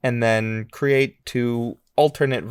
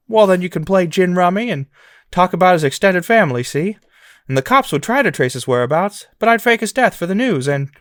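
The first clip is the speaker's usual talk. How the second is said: louder and fast, a lightly voiced rambling leading man; George Bailey impression; 5 semitones higher, 4 dB louder than usual. Host voicing George Bailey in a silly fake quote, rambling. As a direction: rattle off the scheme, getting carried away. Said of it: "I'll do the impression".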